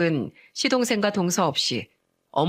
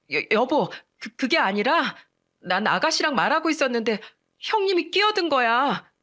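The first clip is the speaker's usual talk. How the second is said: flustered excuse; 5 semitones higher than usual. Acted. Caught wife stammers excuses.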